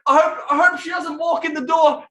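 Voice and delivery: high anxious near-shout; panicky son. Retold or imitated. Teen fearing mum walks in, high anxious shout. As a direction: panic about getting caught.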